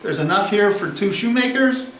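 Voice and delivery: pre-modern townsman. Retold or imitated. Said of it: "the pre-modern mentality is".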